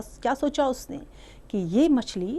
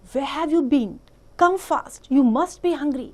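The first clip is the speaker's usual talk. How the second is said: mother calling; 5 semitones higher, 6 dB louder, much slower than usual. Acted. Mother cow greets her calf.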